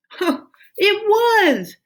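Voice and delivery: high, slow laughing exclamation; a big happy dragon laughing it out; dragon's laugh. A narrator's reading. Dragon laughing to Minley about the weight. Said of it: "Dragon laughed".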